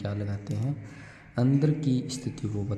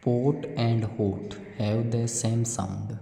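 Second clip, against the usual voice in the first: very slow, deliberate English read; slow classroom read-aloud; reading a question aloud; much slower than usual. Acted. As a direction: read the worksheet question word by word for children. Reads worksheet question slowly.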